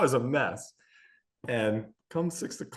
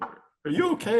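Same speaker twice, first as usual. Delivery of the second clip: put-on higher, a worried kid's voice; concerned daughter; 11 semitones higher than usual. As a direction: check on him like a little girl. Daughter checking on dad.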